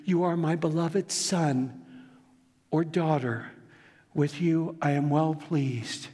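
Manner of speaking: slow, gentle "You are my beloved son" spoken to each listener; tender blessing. Acted. Pastor passing the Father's blessing to the congregation, tender. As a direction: give it to them personally, slowly. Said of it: "he means it for you".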